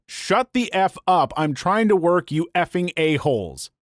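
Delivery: half-hearted angry yell, held back; retold yell. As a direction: imitate a fed-up student yelling. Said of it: "She yells out".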